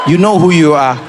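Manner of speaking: loud pointed callout; called-out shout. Real, not acted. Trevor calling out South African fans with a loud shout.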